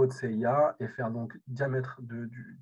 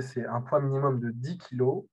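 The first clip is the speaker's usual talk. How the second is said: louder, as to someone hard of hearing; speaking up; 6 dB louder than usual. Real, not acted. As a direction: repeat it louder for the room. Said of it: "je peux parler plus fort".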